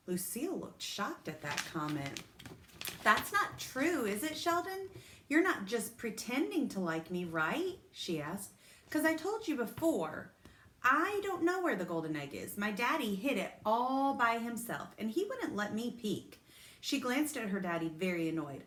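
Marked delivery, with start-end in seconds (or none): 3.0-7.8 put-on a little girl anxiously checking; shocked. A narrator's reading. Lucille asking Sheldon if he's pretending, shocked. 8.9-16.4 lightly voiced higher girl; prim and pleased with herself; spoiled girl. A narrator's reading. Lucille telling Sheldon she doesn't know, prim.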